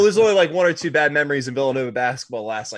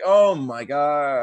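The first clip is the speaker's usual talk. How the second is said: slow awe; 3 dB louder, much slower than usual. Retold or imitated. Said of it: "And you're like".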